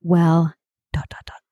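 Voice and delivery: breathless gossip narrator voice; a light hint of the Gossip Girl narrator; Gossip Girl impression. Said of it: "shall I do my best Gossip Girl impression".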